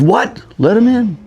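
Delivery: high, loud mock outburst of disbelief; incredulous command. Director insisting the bums come in, high and loud. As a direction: bark it again like a director who can't believe he's asked.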